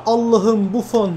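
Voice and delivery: loud, high shouting breaking into a laugh; frantic excitement. Real, not acted. Gamer going crazy at a wild goalmouth scramble. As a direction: lose it as the keeper saves. Wild moment, keeper saves.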